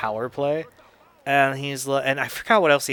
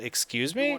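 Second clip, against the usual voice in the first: incredulous; 3 semitones higher, 6 dB quieter than usual. Retold or imitated. Retold disbelief at dad's visit.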